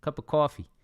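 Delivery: put-on light Jersey-New York accent on coffee; a hint of New York accent. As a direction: say it like a New Yorker ordering coffee. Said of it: "in the Jersey accent or New York accent".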